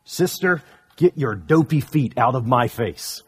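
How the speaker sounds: lightly voiced annoyed boy; a hint of a grumpy cub snapping at his sister; Brother Bear. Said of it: "And Brother Bear says this".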